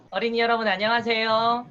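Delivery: kindergarten teacher voice. Shown as a demonstration. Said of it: "유아라고 가정하고 제가 수업을 진행해 볼 테니까".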